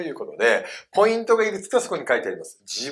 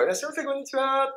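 high, quick, sing-out shop greeting; softer, high-pitched staff call; convenience store clerk; 9 semitones higher, 5 dB quieter, faster than usual. Acted. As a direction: imitate a clerk welcoming customers. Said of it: "コンビニの店員さん言ってくれますよ".

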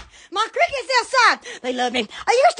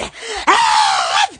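crying-out shriek of self-fright; startled scream; 6 semitones lower than usual. Real, not acted. Streamer scaring themselves on camera, startled scream. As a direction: shriek as if you scared yourself. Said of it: "I think I scared myself".

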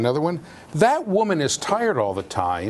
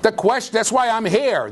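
mock scream; 9 semitones higher, 3 dB louder than usual. Shown as a demonstration. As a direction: bellow it like a fed-up patient. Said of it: "When I scream, it means it's important".

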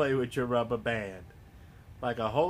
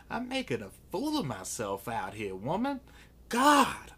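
mock exasperation. Mock protest to an imagined woman.

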